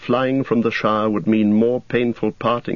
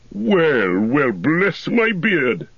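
1 Gandalf surprised; 8 semitones higher, much slower than usual. A narrator's reading. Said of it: "said Gandalf".

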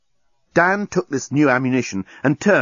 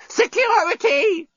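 very high, slow robot alarm call; slower than usual. A narrator's reading. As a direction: shout for security. Deskbot calling for help.

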